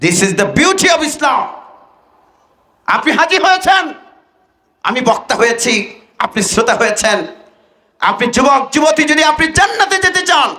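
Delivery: ringing sermon address, rising in pitch; impassioned preaching. Acted. Preacher exhorting young listeners toward paradise, impassioned. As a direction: exhort the crowd.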